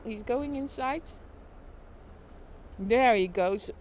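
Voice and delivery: a lighter run of live sports calling; play-by-play commentary. Acted. Streamer narrates the avocado delivery, lively commentary. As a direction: keep calling the delivery like a match. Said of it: "Play by play of a food truck".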